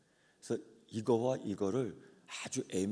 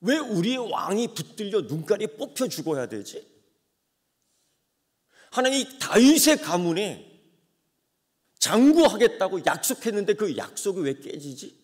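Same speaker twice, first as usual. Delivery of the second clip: anguished questioning; 7 semitones higher, 12 dB louder than usual. Retold or imitated. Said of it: "질문이 생깁니다".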